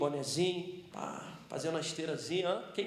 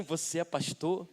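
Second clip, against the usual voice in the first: pointed query; slower than usual. Retold or imitated. Lady on next treadmill to pastor, slow pointed question. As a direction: draw it out, eyeing the pastor. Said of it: "Sabe aquele olhar assim".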